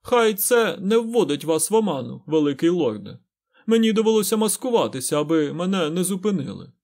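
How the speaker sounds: butter up the lord like an equal; oily and ingratiating. A narrator's reading. Fain flatters the great lord, oily and ingratiating. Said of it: "набув елейності та вкрадливості".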